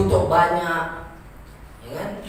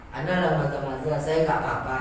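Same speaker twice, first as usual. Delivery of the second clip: quoting the student's error; 5 semitones lower, 3 dB quieter than usual. Retold or imitated. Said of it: "kata dia".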